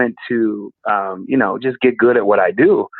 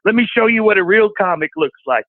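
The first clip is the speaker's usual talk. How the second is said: raised, proud dad voice; imitating dad; 7 semitones higher than usual. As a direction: show off like a proud father. Dad quoted, proud showing off.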